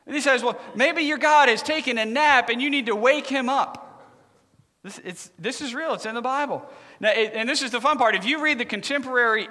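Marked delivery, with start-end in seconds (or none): 0.4-4.1 higher-pitched mock suggestion; making fun. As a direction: tease the rivals in an acted voice. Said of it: "he starts to make fun of them".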